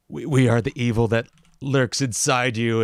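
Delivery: lightly hammed-up sinister villain line; mock villain monologue. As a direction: toss off the villain's boast in a put-on voice. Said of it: "crazy villain monologue".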